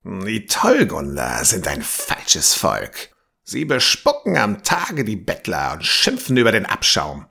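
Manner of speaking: put-on grumbling old man. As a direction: grumble bitterly about the townsfolk. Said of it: "grummelte er". (mildes Grummeln eines alten Mannes)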